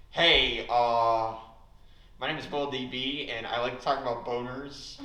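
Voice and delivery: light mock of an absent friend; Will D B impression. Roasting an absent friend on stage, lightly voiced. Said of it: "next is my impression of".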